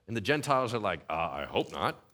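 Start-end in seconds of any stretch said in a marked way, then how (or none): 1.1-2.0 put-on low, soft, doubtful older-man voice; skeptical Gentile. A Gentile balks at the church's rule, low and soft. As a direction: drop low and mumble a wary no.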